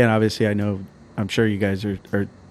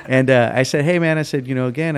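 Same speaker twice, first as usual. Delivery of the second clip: cracking, higher voice; 3 semitones higher, 3 dB louder than usual. Real, not acted. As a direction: let the voice crack and break. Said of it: "was your voice cracking like it is now".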